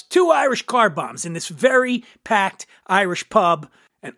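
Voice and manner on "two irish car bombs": higher-pitched retold call; mock shout. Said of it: "so Zabka shouts".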